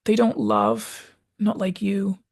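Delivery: high, slow, aching plea; slow high-pitched begging to stay; Charlie's last plea. Retold or imitated. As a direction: plead slowly as the last chance slips away. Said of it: "and he says".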